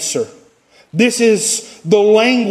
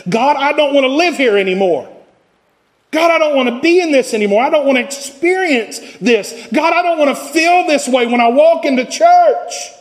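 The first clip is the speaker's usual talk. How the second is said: pleading to God; 4 semitones higher than usual. Acted. Voicing a believer's complaint to God.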